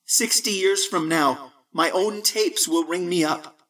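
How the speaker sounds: put-on young voice over a phone, matter-of-fact; young Barton. A narrator's reading.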